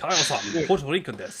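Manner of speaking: teasing fake Japanese accent; mock Japanese accent. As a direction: put on a silly Japanese accent. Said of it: "we won't do any Asian accents".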